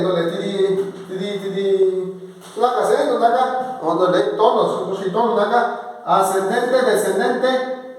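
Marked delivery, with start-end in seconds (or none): 0.0-2.4 slow "tiri" at x0.6 with rising and falling tones; tone contour demo. Shown as a demonstration. Teacher shows rising and falling tones on "tiri". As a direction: slide the voice up and down on "tiri".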